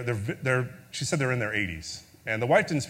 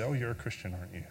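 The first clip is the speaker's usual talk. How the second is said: prayer. Acted. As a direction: pray it humbly, letting it fade. Closing prayer.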